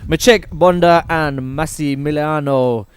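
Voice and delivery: rolled Italian R on Vinciprova; Italian accent. Shown as a demonstration. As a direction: say the names the Italian way. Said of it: "you've even got the roll of the tongue".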